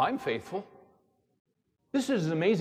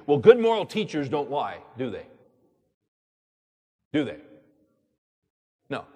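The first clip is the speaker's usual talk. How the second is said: ordinary talk, nothing marked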